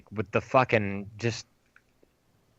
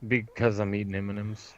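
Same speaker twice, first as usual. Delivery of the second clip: talking while crunching candy; crunching chips; 3 semitones lower, 4 dB quieter than usual. Real, not acted. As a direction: mouth full of M&M's. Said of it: "You can probably hear me crunching".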